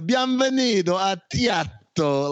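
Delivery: silly, ridiculous, laid-on put-on Italian accent. Quoting how his guy ad-libbed a restaurant greeting, ridiculous italian accent. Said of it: "With this ridiculous Italian accent".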